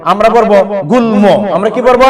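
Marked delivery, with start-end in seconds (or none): 0.9-1.2 "গুল্ম" with both l and m pronounced; sounded মফলা. Shown as a demonstration. Teacher models a word for pupils, sounded মফলা in গুল্ম. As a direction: say গুল্ম as gul-mo, the m heard. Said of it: "ওই মফলা উচ্চারণ হবে".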